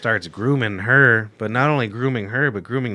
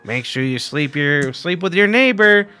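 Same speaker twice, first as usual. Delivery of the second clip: high, booming alien voice; loud otherworldly alien command; 4 semitones higher, 4 dB louder than usual. Retold or imitated. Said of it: "doing this alien voice".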